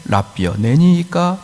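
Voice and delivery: slow, sly question from Judas; Judas asking. Acted. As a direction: ask slowly, feigning innocence. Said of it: "유다가 대답하여 가로되". (느리게 시치미 떼며 묻는 유다)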